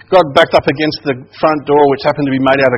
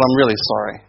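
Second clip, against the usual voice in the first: gently meant, understated apology; sincere apology; 3 semitones lower, 4 dB quieter, faster than usual. Retold or imitated. Older brother making up after the fight, quietly sincere. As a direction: say it as if you truly mean it. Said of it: "until we actually meant that we were sorry".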